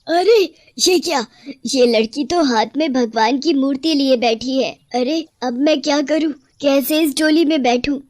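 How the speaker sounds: mild shocked outcry fading into worry; witch cries out. Acted. Witch finds the god's idol in the palanquin, crying out. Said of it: "चिल्लाते हुए बोलती है".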